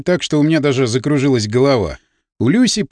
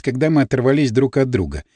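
ordinary delivery, nothing marked

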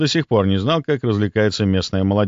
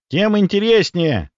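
put-on higher, drawn-out eager girl; perked up; 10 semitones higher, slower than usual. A narrator's reading. Girl reacts to the creepy building, perking up. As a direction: brighten up, stretching it out with relish. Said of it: "оживилась Настя".

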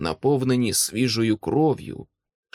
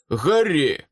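higher-pitched call for attention; urgent shout; 4 semitones higher, 4 dB louder than usual. A narrator's reading. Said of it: "крикнув Томас". (нетерплячий оклик)

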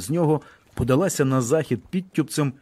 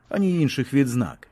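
ordinary delivery, nothing marked

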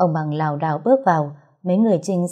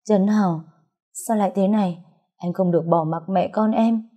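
crying out. Acted. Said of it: "Cô khóc lóc".

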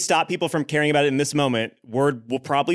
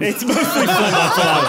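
mocking echo; 5 semitones higher, 5 dB louder, slower than usual. Mocking player's pronunciation.

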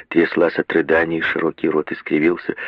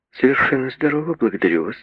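prim; 6 semitones higher, faster than usual. A narrator's reading. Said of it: "произнесли чопорно поджатые губы".

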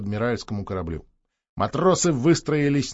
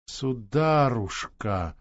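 slow musing echo; 4 dB quieter, much slower than usual. Acted. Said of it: "повторила она".

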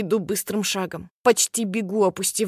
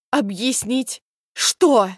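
higher, louder incredulous outburst; voice breaking into a shout; 4 semitones higher, 5 dB louder, much slower than usual. Acted. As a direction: let the disbelief crack up into a yell. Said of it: "Голос срывается на крик". (голос срывается на крик)

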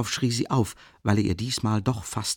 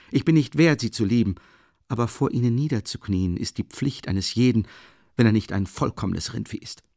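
put-on higher, louder, ardent young man; tipsy Razumikhin; 5 semitones higher, 4 dB louder than usual. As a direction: plead and confess at once. Razumikhin kneeling, drunk, ashamed.

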